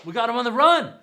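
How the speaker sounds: whooping high and loud, gleeful; a big hammed-up woo of triumph; mock victory whoop. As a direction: cheer like soldiers who think they've won. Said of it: "The English soldiers think".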